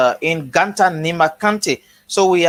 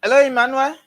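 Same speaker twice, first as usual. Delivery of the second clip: raised voice calling a name; 7 semitones higher, faster than usual. Real, not acted. Calling out to muted caller.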